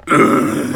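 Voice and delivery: raspy fake cough. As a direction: hack out a cough. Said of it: "You sick?".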